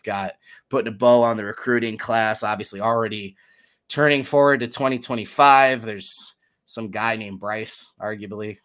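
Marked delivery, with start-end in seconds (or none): 5.8-8.6 slow, fake-unsure drawl over the name Bryce; deadpan sarcastic not-knowing; mock cluelessness. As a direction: pretend you can't remember the star recruit's name. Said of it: "the speaker isn't being serious".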